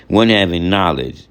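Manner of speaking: One having knowledge said, then a short pause at the comma; pause after comma. Shown as a demonstration. Teacher showing students the short comma pause before moving on. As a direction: read it with a short stop at the comma. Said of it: "and then there's a pause".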